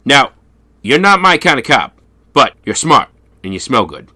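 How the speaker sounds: lightly voiced effete Englishman; a hint of a prim English gent. Quoting the Englishman to the detective, mildly prim. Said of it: "and he goes".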